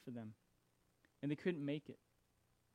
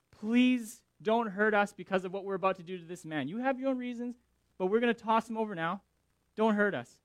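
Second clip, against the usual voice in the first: loud urgent begging; pleading prayer; 4 semitones higher, 5 dB louder than usual. Retold or imitated. Sailors about to toss Jonah, loudly pleading. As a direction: beg God not to punish them. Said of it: "And they're like".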